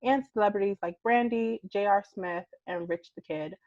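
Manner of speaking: upbeat podcast sponsor read. Acted. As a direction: sell the earbuds like a host ad.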